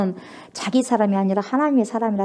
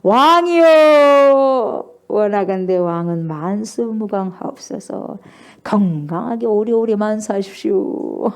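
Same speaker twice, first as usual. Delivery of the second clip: Daniel answering; 4 dB louder, slower than usual. Retold or imitated. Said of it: "다니엘이 뭐라 그래요?".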